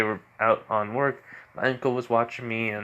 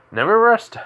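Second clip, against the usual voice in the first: higher and louder, snapped out; sharp exclamation; 10 semitones higher, 6 dB louder than usual. Acted. Radio demon sensing danger, cries out sharply. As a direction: bark it like a sudden alarm.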